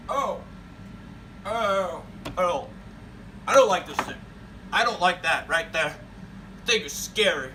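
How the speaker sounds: put-on loud frightened old man whining; a scared old man backing away.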